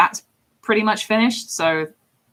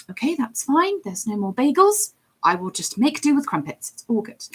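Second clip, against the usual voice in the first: higher, passive-aggressive acceptance; 6 semitones higher than usual. Shown as a demonstration. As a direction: pretend it's all fine while clearly resenting it. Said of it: "it's more my passive aggressive voice".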